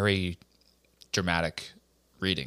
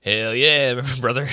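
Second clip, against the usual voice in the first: excited shout; 4 semitones higher, 7 dB louder, slower than usual. Pretend. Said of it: "Is this Brendan".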